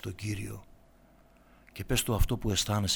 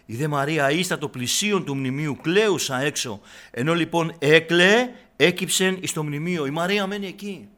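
louder, dramatic Gospel retelling; impassioned preaching; 6 semitones higher, 11 dB louder than usual. Real, not acted. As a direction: drive the story home to the flock. Reading and preaching on Mary. (έντονο κήρυγμα με πάθος)

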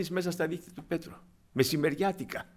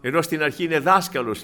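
ordinary talk

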